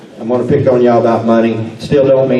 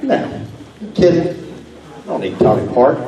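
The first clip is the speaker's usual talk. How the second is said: incredulous; 5 semitones higher than usual. Retold or imitated. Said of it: "and I'm like".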